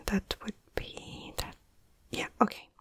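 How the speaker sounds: very soft, barely voiced mumble; calculating under breath. Medic calculating a dose by weight, murmuring to self. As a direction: murmur it only to yourself.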